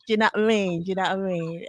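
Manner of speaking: slurred-together London catchphrase; South London slang impression. Host repeats London catchphrase for laughs, South London slang. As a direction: mimic a Londoner dropping letters. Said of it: "That's London".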